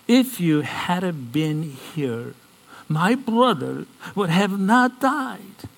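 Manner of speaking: lightly acted grieving sister's complaint, drawn out; reproachful. Martha to Jesus after her brother's death, mildly reproachful.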